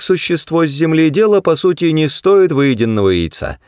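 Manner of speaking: high-pitched small creature voice; piping, self-important mouse; brisk little mouse. A narrator's reading. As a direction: address the guest high and businesslike.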